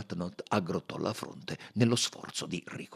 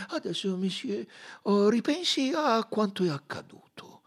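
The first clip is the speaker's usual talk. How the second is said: higher, half-whispered coaxing; encouraging; 5 dB louder than usual. Acted. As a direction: gently urge him to remember. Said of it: "in tono incoraggiante".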